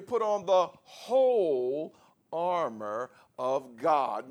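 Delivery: "whole" drawn out long and slow; slow, weighty emphasis on "whole"; stress on WHOLE. Shown as a demonstration. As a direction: lean hard on "whole", stretching it before "armor". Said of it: "He's emphasizing the word whole".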